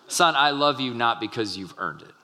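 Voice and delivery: plain, earnest and kind; sincere father reassuring a son. Shown as a demonstration. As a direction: say it to the son as you truly mean it. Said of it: "Correction is not a time for sarcasm".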